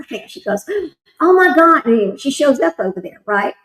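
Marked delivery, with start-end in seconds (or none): 1.2-1.8 shocked gasp. Retold or imitated. Sister hears dad passed away.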